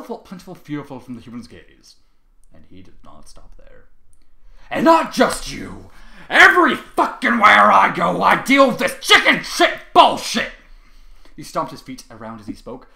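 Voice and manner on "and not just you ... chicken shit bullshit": loud, slow, furious yelling; raging shout. A narrator's reading. Trevor rages at the ponies, furious shout. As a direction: bellow out the grievance.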